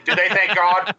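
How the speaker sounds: amused chuckling question; laughing. Real, not acted.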